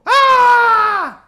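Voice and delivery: high shrill-free scream of shock, loud and high; a sudden loud high scream of panic. Retold or imitated. Woman wakes glued to bed.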